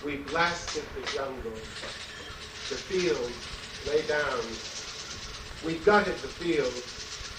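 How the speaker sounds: steady, pounding chant with a fall on every line; marching song poem. Acted. Poet to audience, reading his marching song as a pounding chant. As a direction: drive each line like a drumbeat of conquest.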